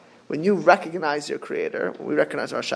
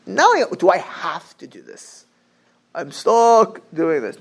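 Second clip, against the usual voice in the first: grudging; 4 dB louder than usual. Acted. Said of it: "No, he wanted to do this".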